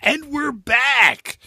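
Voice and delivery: big slow booming radio announcer; radio host voice. Pretend. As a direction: belt it like a DJ coming back from a break. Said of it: "like a radio show host".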